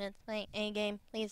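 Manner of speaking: mechanical, synthetic robot voice. Repeating a character's creepy line, in a mechanical robot voice. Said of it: "In robot voice, I would be like".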